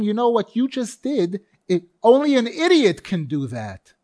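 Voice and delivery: scolding parent. Acted. Parent berating a son for doing something terrible, scolding. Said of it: "and you tell him".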